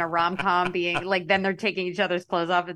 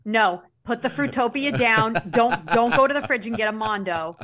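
scolding mom; 3 semitones higher than usual. Retold or imitated. Mom ordering kid, acted.

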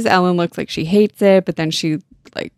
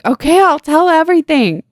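high mock-panicked blurt; panicked confession; 10 semitones higher, 4 dB louder than usual. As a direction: cave in, voice pitched way up. Tony panics and confesses, retold.

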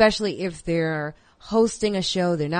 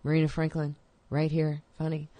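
understated mock comic voice, slightly lowered; Todd Barry. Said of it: "That was a horrible Todd Barry, um, impersonation".

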